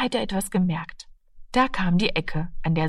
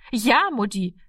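put-on mildly raised, higher child's call; eager call; 4 semitones higher than usual. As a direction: call out a glad yes to mother, lightly acted. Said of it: "rief Martina". (leicht angedeutetes freudiges Rufen)

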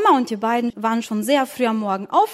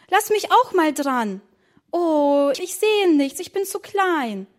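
lightly voiced child; 4 semitones higher than usual. Children peek at the strudel.

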